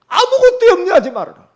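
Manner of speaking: high, loud pulpit proclamation; high-pitched preacher's shout; proclaimed scripture. Acted. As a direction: thunder the command out like scripture.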